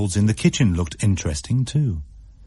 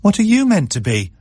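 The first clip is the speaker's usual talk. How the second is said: high, louder teasing question; Martin; 11 semitones higher, 4 dB louder than usual. A narrator's reading. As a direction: brother asking his sister. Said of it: "said Martin".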